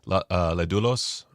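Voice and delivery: Ledulos with a light Spanish accent, rolled out unthinkingly; accidental Spanish accent. Real, not acted. Host reading a movie title off the sale list, faint Spanish accent. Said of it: "said that with a Spanish accent".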